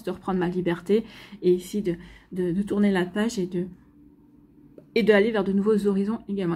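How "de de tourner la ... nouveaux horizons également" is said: speaking through hiccups; a hiccup catching the words. Real, not acted. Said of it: "Excusez-moi, j'ai le hoquet". (avec le hoquet)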